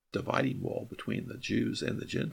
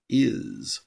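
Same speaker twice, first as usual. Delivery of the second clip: "Is." said alone, punched louder; stress on is; 6 dB louder than usual. Shown as a demonstration. Teacher showing the Greek verb alone, louder and stressed. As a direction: hit the single word "Is." hard and short. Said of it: "You just say".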